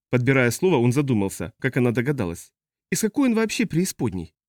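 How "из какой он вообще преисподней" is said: high-pitched, incredulous question; appalled customs officer. Acted. Customs officer asks about the pilot, high and appalled. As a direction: ask in dismay, pitch lifted.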